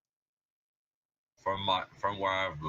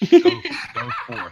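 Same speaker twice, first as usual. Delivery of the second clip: grand command; 14 dB louder than usual. Acted. Commanding the mud crab familiar.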